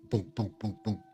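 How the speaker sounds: evenly spaced booms like knocks; imitated knocking. Storyteller imitates someone knocking at the door, measured knocking booms. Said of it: "Someone is knocking at the door".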